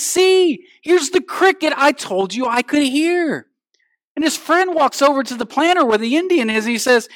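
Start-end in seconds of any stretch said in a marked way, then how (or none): 0.0-3.4 acted triumph. Vindicated man shows cricket.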